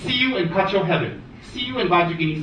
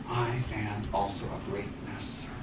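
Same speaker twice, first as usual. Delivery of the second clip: slow, soft, haughty mutter; lightly playing a smug monk; mock arrogant monk; 6 semitones lower, 11 dB quieter, slower than usual. Monk mocking arrogant students, slow and haughty. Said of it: "with their robes like".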